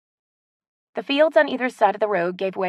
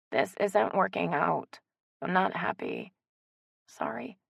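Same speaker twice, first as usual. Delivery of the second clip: quiet breakup; 5 dB quieter than usual. Acted. Ex breaking up, remembered.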